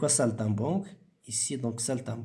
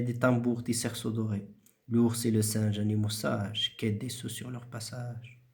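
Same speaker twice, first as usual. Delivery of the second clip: measured recitation, each line starting firm and falling away; teacher's model poetry recitation; rhythmic poem reading. Shown as a demonstration. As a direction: recite the verse musically, respecting the punctuation. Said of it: "une voix rythmique".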